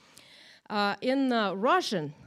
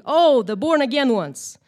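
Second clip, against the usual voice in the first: mocking; 3 semitones higher, 11 dB louder than usual. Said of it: "not in a respectful way".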